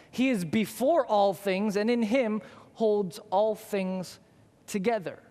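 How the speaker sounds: measured, slow reading of scripture. Acted. Preacher reading Colossians to the congregation, slow and reverent. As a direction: let each phrase land slowly.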